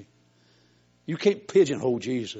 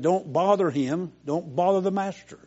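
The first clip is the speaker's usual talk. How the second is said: disciples scolding; 8 semitones higher, 5 dB louder than usual. Retold or imitated. Disciples shooing Bartimaeus away.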